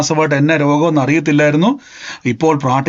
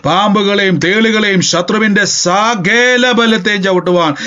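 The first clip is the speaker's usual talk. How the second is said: deliverance prayer; 3 semitones higher than usual. Acted. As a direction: rebuke the spirit with rising force.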